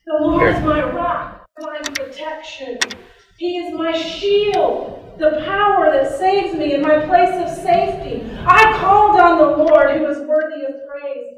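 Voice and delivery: booming, passionate scripture proclaiming; loud worship. Shown as a demonstration. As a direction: cry the verse out like worship. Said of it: "by saying the things that we notice about God".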